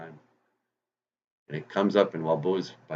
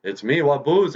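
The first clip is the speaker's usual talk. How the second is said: rabbit revealing himself; 7 semitones higher, 5 dB louder than usual. Acted. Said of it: "and he says".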